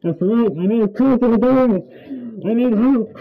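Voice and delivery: muffled behind a rubber mask; words smothered by a mask; through a gas mask. Real, not acted. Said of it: "You just said that".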